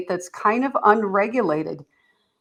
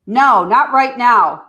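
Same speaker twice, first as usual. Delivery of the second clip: put-on teen brushing off; 3 semitones higher, 8 dB louder, slower than usual. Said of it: "So you might need to say".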